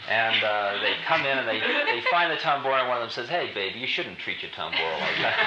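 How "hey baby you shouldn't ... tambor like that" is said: lower, laid-back hippie chiding; a tough but gentle backwoods guy, lightly voiced.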